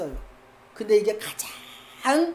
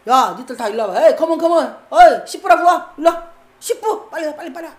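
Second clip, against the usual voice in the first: king bellowing to summon the midwives, louder; fuming ruler calling them in; furious king; 5 dB louder than usual. Acted. Angry Egyptian king summoning the midwives, loud and fuming. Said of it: "왕이 들을 때 열받는 거야".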